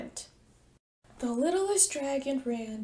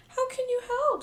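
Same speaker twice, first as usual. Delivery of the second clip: sniffy; 11 semitones higher than usual. Acted. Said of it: "sniffed the littlest dragon".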